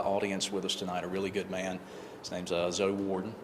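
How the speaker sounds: talking around a wad of gum; words slightly mushy from chewing gum. Real, not acted. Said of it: "I've got gum in my mouth".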